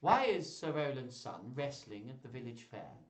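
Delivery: lightly voiced whiny courtier; a touch of complaint in the question. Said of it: "he's just got this whiny voice".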